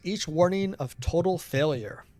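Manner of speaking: measured, solemn read-aloud; dramatic game narration. Acted. Streamer reading the broadcaster's message, dramatic narration. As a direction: deliver the game's message as a resolute narrator.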